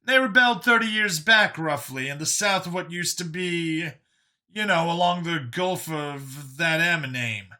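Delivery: high, loud character voice feeling for words; high-voiced man groping for a forgotten name; the speaker reminiscing. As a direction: pitch it up, drawing words out as you recall.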